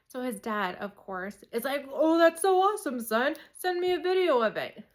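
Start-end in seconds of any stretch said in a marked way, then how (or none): 1.9-4.8 high, loud, delighted praise; enthusiastic dad. Retold or imitated. Dad praising his son's ramp run, high and delighted. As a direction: cheer the kid on.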